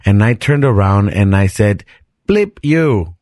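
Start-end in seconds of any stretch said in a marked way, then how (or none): 2.3-3.1 higher-pitched retort with mock Asian accent. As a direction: snap back, slipping into an Asian accent. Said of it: "You went Asian there".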